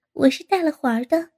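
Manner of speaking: short chuckle into the line; lightly amused reply; laughing. Acted. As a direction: laugh first, then answer. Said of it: "高洁突然笑了".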